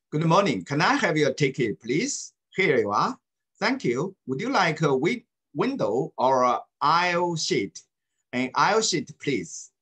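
以正常语速示范朗读对话; 像英语课本录音那样读给学生听; 正常语速朗读. Shown as a demonstration. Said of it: "要按正常语速读". (老师示范朗读，语速正常)

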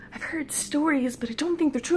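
hesitant doubt. Retold or imitated. Lady gnome doubting the rumors, high and hesitant. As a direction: imitate a small, doubtful speaker.

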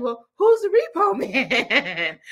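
put-on high, slow kid voice breaking into laughter; mock innocent child question; imitating young son. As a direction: ask like a curious child, drawn out.

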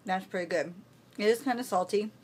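talking through a mouthful of jerky; words round a bite of food, mouth full. Real, not acted. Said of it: "talking with my mouth full".

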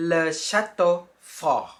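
Le château fort said slowly as a model; French pronunciation. Shown as a demonstration. Teacher naming the toy castle, careful French. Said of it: "ภาษาฝรั่งเศสก็จะอ่านว่า".

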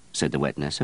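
plain reading voice

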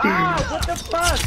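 high, drawn-out cry of alarm; jolted, high-pitched outburst; startled yell. Real, not acted. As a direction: yelp in shock, stretching the words. Startled by partner's scream.

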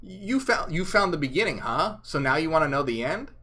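loud sarcastic ribbing; mocking Jesus. Jesus teasing disciples about the end, sarcastic. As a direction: tease them for asking too soon. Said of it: "he's kind of mocking them".

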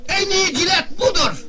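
hammed-up razor commercial; mock ad pitch. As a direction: announce it like a TV ad.

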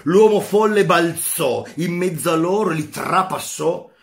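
a teacher reading a philosophy passage aloud with feeling; dramatic reading. Acted. Teacher reading Nietzsche's parable to students, dramatic read. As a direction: read it to the class like a parable, building tension.

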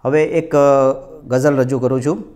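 ordinary talk

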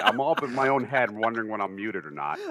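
loud, high exasperated outburst. Real, not acted. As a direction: blurt it out, fed up. Exasperated at being muted.

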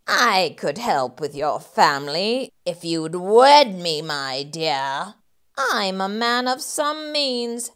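woo her with false charm; creepy landlord sweet talk; smarmy proposal. Acted. Rat proposes to widow.

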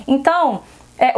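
usual speaking voice

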